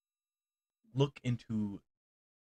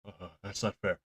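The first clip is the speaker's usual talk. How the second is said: yelping dog, caught out and protesting; a dog squirming while pleading; hammed-up flustered dog. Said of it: "old Duke goes".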